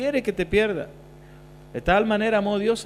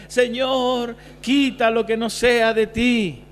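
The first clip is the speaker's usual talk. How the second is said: praying youth; 5 semitones higher, 3 dB louder, much slower than usual. Retold or imitated. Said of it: "él oraba siempre y decía".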